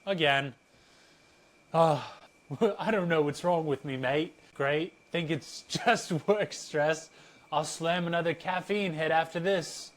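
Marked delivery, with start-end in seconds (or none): 1.7-9.9 loosely put-on vague foreign accent, laughing through it; wing an unnamed accent for Bumboy, half laughing; improvised vague accent. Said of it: "I don't know what, uh, accent I'm doing".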